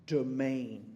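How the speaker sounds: teacher spelling out domain by sound, leaning on it; pronounced domain. Shown as a demonstration. Teacher showing the class how to say domain. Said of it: "This word here is actually pronounced domain".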